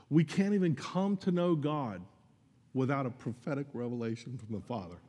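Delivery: real emotion welling up mid-sermon; choked up. Real, not acted. Preacher to congregation about knowing God, choked up. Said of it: "why does that choke me up".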